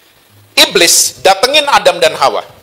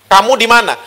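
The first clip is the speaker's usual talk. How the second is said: higher, concerned fatherly call; searching father; 4 semitones higher than usual. Acted. Father seeking his child who slipped, higher searching call. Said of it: "Intonasinya seperti bapak yang cari anaknya".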